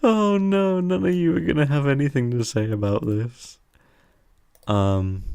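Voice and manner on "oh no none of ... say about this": excited. Real, not acted. Reveals a doozy number.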